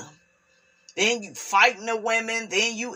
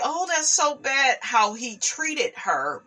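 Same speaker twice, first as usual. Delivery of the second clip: higher-pitched imitation of onlookers' pity; mock sympathy; 6 semitones higher than usual. Onlookers saying how bad he treated her, mock sympathy. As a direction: put on a high, commiserating voice. Voicing the public's later sympathy.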